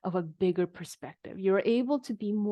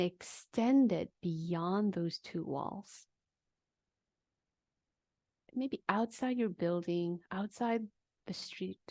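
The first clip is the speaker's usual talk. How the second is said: guided awareness exercise. Acted. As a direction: lead them gently outward, letting the words drift.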